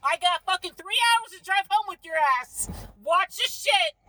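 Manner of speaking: angry yelling. Real, not acted. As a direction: yell it at him. Yelling at partner.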